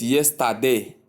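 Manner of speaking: "yesterday" with an unreduced middle, yes-tah-day; mispronunciation. Shown as a demonstration. Teacher quoting a common error, mispronunciation. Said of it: "for those that call it".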